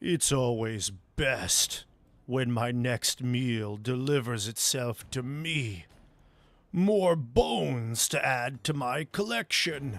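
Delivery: slow, huge voice of a massive creature. Voicing a large creature speaking from the darkness: large creature voice. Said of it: "you can hear a voice from a large creature".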